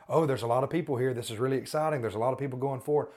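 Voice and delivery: lightly acted excited onlooker; mock excitement. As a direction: voice an impressed onlooker, a little hurried. Voicing excited crusade-goers to be dismissed.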